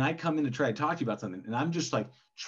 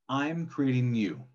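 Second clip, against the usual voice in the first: slow intentional; slower than usual. Acted. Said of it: "I'll start the volleyball".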